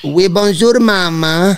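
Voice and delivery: high put-on Russian accent; prank-call voice with a Russian accent; russian accent in french. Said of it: "si je lui parle avec un accent, euh, russe".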